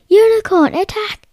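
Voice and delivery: high, loud battle order; commanding shout. Acted. King orders his unicorn to attack, shouting. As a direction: bark the command to charge.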